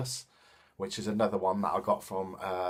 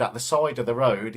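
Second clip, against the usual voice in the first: shocked and startled; 6 dB louder than usual. Retold or imitated. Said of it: "he sounded really shocked and startled".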